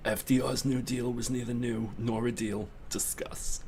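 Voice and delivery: soft, put-on New York talk-show host; Linda Richmond. Host gives viewers a topic to discuss, soft put-on voice. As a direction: hush it like a coffee-talk hostess posing a topic. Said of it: "Coffee Talk with Linda Richmond".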